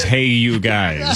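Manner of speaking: lightly voiced slow Sloth call; a hint of Sloth, drawn out slowly; Sloth impression. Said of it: "the line that you're looking for is".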